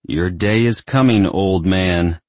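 firm, pressed words; emphatic. A narrator's reading. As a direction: lean on every word. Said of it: "spoken with emphasis".

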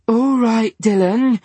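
too loud, like she can't hear herself; overloud. A narrator's reading. Diana to Dylan in an overloud voice. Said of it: "said Diana in an overloud voice".

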